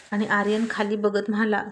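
ordinary delivery

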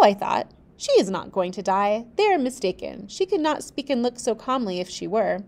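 steady storybook reading; measured narrator voice; story narration. A narrator's reading. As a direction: read the tale aloud, even and clear. Reads the novel aloud.

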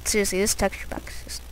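whispered aside. Real, not acted. Gamer admiring the texture pack in a hushed whisper. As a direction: breathe it quietly like a secret.

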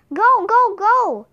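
frantic high shout; panicked yell at the sleigh; cried out. A narrator's reading. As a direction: urge the sleigh on, yelling. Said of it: "Jack cried".

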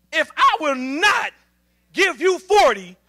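slow, punched trash-talk taunt; sarcastic athlete's boast; sarcastic challenge. Acted. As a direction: dare them with cocky, drawn-out sarcasm. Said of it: "It's the sarcasm".

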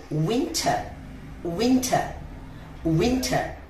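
উইন্টার said winta, slow, no final r; careful English pronunciation. Shown as a demonstration. Teacher drills students on উইন্টার. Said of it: "উইন্টার আমরা কি না বলবো".

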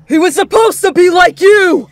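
high, full-force angry shout; enraged father shouting. Acted. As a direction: yell it at her in fury. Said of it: "Kon shouted".

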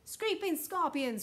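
high, slow, loud exclamation; cried out. A narrator's reading. President astonished by the news, crying out. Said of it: "cried the president".

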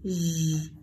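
Z sounded as a low held zh buzz; voiced zh. Shown as a demonstration. Teacher isolates the leisure sound, held low zh. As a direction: hold the buzzing zh written "Z". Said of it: "được đọc là âm".

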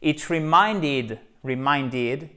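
reminded said slowly, stress on MIND; teacher spelling out reminded syllable by syllable; slow careful demo. Shown as a demonstration. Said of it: "pour dire ça m'a fait penser".

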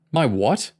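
gasping in disbelief; shocked gasp. A narrator's reading. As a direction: blurt it out shocked. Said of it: "James gasped".

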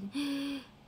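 quick gasp of alarm; gasping at the news; sharp gasp. Real, not acted. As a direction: catch the breath in shock. Hearing the theater lost sound.

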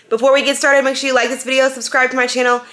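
quick run-through of channel plugs; hurried sign-up spiel; talking really fast. Real, not acted. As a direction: squeeze it all in, briskly. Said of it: "Am I talking really fast?".

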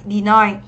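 "deny" stressed on ny, rhyming with eye; teacher repeating de-NY as a model; second-syllable stress. Shown as a demonstration. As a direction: put the weight on the end of "deny". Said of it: "cho âm hai và đây là âm I".

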